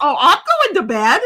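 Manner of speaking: giggling while announcing bed; laughing. Retold or imitated. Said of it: "And she goes".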